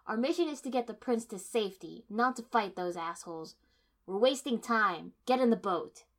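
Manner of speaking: loud, hard commands; angry orders. A narrator's reading. Kiba telling the heroine to get in the boat, loud and angry. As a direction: order them out, no patience.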